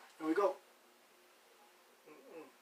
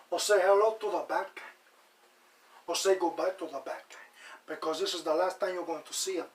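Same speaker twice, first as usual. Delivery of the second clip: movie gangster's accent, lightly put on; Scarface accent. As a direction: try out a playful gangster-film accent. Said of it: "I got the, the, the accent down packed".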